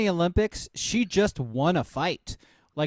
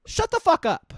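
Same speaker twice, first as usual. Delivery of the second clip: telling a bar guy off; 2 semitones higher, 5 dB louder than usual. Retold or imitated. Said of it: "You're like".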